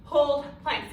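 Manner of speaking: winded, talking between breaths; out of breath after the set. Real, not acted. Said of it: "See, I'm still out of breath".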